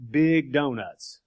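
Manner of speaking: big drawn out slowly and hit hard; big stretched for emphasis; stress on big. Shown as a demonstration. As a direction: lean slowly on big donuts. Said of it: "repeating provided emphasis".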